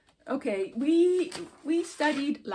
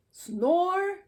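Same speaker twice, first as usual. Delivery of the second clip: bear snore; 5 semitones higher, 4 dB louder than usual. Shown as a demonstration. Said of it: "our famous bear snore sound".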